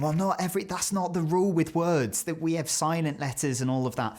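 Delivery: high-pitched mock objection; pedantic commenter. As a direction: imitate a nitpicking online commenter. Mimicking objecting keyboard commenters.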